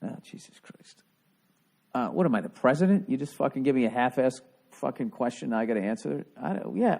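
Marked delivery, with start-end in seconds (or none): 0.0-1.0 breathy whispered groan, much softer; exasperated groan. Real, not acted. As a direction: sigh it out under your breath, fed up. Exasperated at a dumb question.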